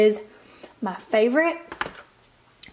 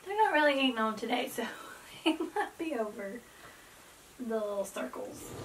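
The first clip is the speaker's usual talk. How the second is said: whispering; 9 dB quieter, faster than usual. Real, not acted. Whispering aside near dogs.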